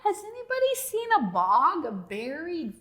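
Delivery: high, loud lost-frog call; yelling. Acted. Lost Bonzo calling for help, high and loud. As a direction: call out through the jungle. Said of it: "Bonzo yelled".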